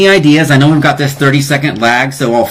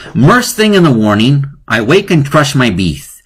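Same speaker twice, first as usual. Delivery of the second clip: poem reading; 3 semitones higher than usual. Acted. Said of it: "Homeschool in Quarantine".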